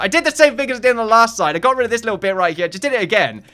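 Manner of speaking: loud, high, rapid complaint; exasperated rant. Real, not acted. Builder repeating the same mistake, fast exasperated rant.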